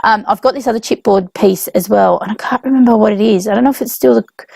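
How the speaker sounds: ordinary delivery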